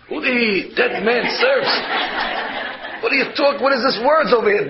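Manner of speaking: puzzled father challenging a phrase; taken-aback, questioning echo; retold incredulous questioning. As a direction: query it in mock disbelief. Father objects to son's phrase.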